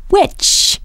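hushed whisper of a warning. Acted. Warning of a witch quietly.

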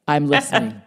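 low, smooth radio psychiatrist; a hint of Frasier's on-air calm; Frasier Crane voice. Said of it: "The official microphone of Doctor Fraser Crane".

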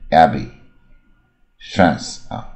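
Abbey and France said very slowly, both with an open a like "cat"; American a sound. Shown as a demonstration. Teacher models the American a in Abbey and France, very slow. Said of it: "也是a的音啊".

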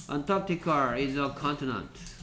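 very slow, every word laid out; slow read-aloud. Shown as a demonstration. Teacher reading the textbook line slowly to students. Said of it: "teacher reads sentence aloud".

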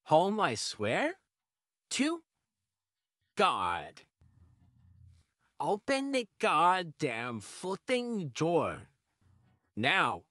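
slow, seething demand; angry, slow demand. Acted. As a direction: grit it out slowly. Losing patience at the door.

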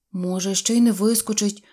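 ordinary delivery

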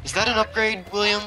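sarcastic. Real, not acted. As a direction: ask it with sarcasm. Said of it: "you know I'm being sarcastic".

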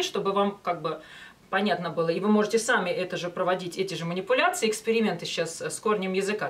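ordinary delivery

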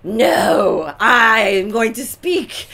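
mock alpha female taking over; bossy insistence. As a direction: plant your feet and claim the floor. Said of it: "it's in my genes to be like".

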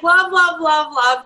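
a hint of high gushing pet talk; cooing to pets. Owner lightly cooing love to all her animals. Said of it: "to all of my animals".

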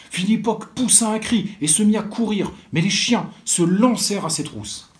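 put-on lively storybook reading for children; story narration. A narrator's reading. Librarian reading a school tale to children, lively storytelling. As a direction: tell it like a librarian reading aloud to kids.

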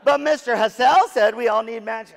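high, loud, whining "But Mister Hassell"; whiny teen protest. Retold or imitated. Daughter protests to her dad, loud and high-pitched. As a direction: protest like a stubborn teenager.

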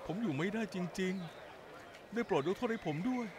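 drawn-out, slow desperate plea; slow broken pleading. Acted. Man begging his ex-lover to forgive him, slow broken plea. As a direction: stretch every word as if near tears.

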